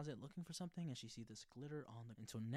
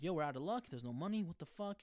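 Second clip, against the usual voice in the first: loud, higher outburst of frustration; 6 semitones higher, 7 dB louder than usual. Retold or imitated. Friends realising there's no money, shouting in frustration. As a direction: yell it like the money's gone.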